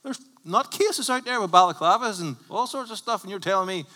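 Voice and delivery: high, loud incredulous outburst; exasperated rant. Real, not acted. Preacher rants to the congregation about nutcases, exasperated. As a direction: rant in disbelief.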